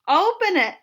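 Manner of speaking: excited little command; eager demand. A narrator's reading. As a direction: call it out impatiently, like an eager child. Huey eager to see catalog.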